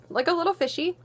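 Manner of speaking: talking with cheeks sucked in; fish face. Shown as a demonstration. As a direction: speak with hollowed cheeks like a fish. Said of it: "You can't really talk while doing it".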